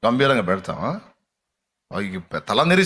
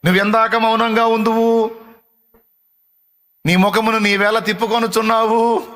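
crying out to God; 7 semitones higher, 4 dB louder than usual. Retold or imitated. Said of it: "బ్రతిమలాటలన్నీ".

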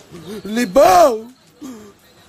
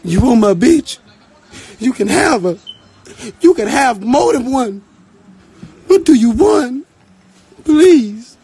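mock desperate bargaining; 5 dB louder than usual. Pretend captive bargaining with attacker.

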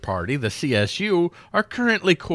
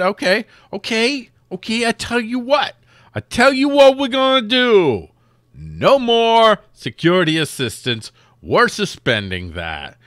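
mock tough talk; 11 semitones higher, 5 dB louder than usual. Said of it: "They said".

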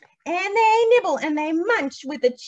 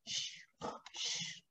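soft hushing; sleeping bear, shh; whispered shh; 20 dB quieter than usual. Acted. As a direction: shush the children for the sleeping bear.

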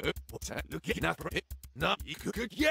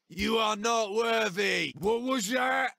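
arrogant taunt; 3 semitones higher than usual. Acted.

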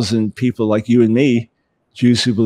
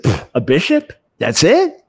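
scoffing Jewish dad; 5 semitones higher than usual. Retold or imitated. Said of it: "Jewish dad said".

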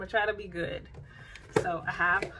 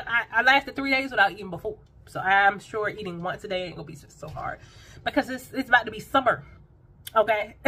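1 sassy brag; 4 semitones higher, 5 dB louder than usual. Real, not acted.

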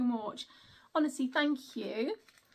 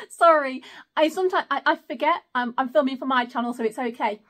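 louder, laughing through the apology; embarrassed laugh; 8 dB louder than usual. Real, not acted. Apologising to viewers for swearing, embarrassed laughing. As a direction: laugh it off sheepishly.

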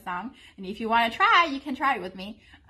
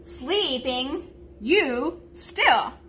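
mock-literal word order, rising; silly literal version; 2 semitones higher, much slower than usual. Shown as a demonstration. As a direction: say it as a clumsy word-for-word translation. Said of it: "it would sound really silly".

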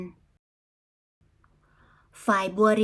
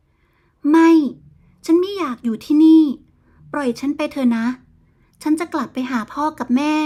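tearful pleading; 4 semitones higher, 6 dB louder than usual. Acted. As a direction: beg to be let go, near tears. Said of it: "หญิงสาวอ้อนวอนด้วยน้ำตา". (อ้อนวอนทั้งน้ำตา)

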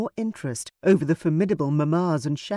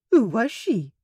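resigned question; 7 semitones higher than usual. Acted. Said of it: "in a tone that indicated she did not expect an answer".

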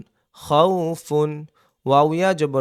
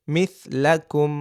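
slow blended word; much slower than usual. Shown as a demonstration. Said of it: "teacher joins syllables slowly".

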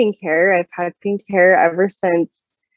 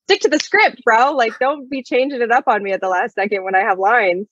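1 retold indignation; 5 semitones higher than usual. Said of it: "but I was like".

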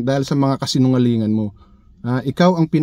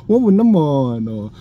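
mock pity. Vlogger mocks rival's pity with a laugh. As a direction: coo it with a laugh, mocking.

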